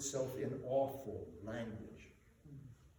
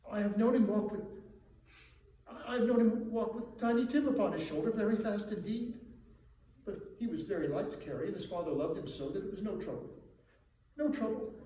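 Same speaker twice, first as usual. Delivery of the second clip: mild grief; 7 semitones higher, 4 dB louder, faster than usual. Acted. Mother remembering dead son.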